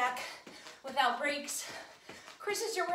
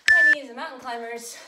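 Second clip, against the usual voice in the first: loud callout; 11 dB louder than usual. Real, not acted. Coach calling next exercise.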